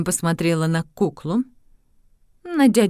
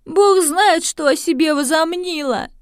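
high, exasperated mother; indignant mother; 10 semitones higher, 4 dB louder than usual. Acted. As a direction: throw up your hands, outraged.

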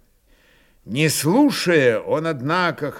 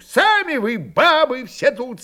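high, raised, bitter reproach; angry and bitter; 11 semitones higher, 4 dB louder than usual. A narrator's reading. Old Cossack reproaches the whole crowd, angry and bitter. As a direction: spit out the insult in grievance. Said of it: "сказал он зло и горестно".

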